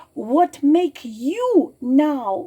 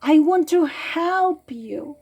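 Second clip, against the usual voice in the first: higher, slow, tender voice fighting off tears; higher and louder, a slow tearful tenderness; holding back tears; 3 semitones higher, 5 dB louder than usual. Real, not acted. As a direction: say it with love while you try not to cry. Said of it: "trying to hold myself together".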